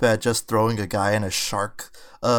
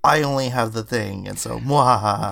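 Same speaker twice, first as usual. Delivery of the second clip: lightly voiced maniacal villain; a hint of a gloating bad guy; sneering panto villain. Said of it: "the most maniacal".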